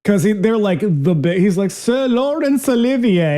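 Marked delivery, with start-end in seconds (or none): 1.7-3.4 pompous name-drop. Retold or imitated. Imitating character name-dropping.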